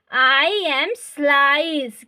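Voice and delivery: very slow, word by word for students; slow dictation. Shown as a demonstration. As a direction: spell it out slowly to the class. Teacher dictating the phrase. (छात्रों के लिए बहुत धीरे बोलकर लिखवाना)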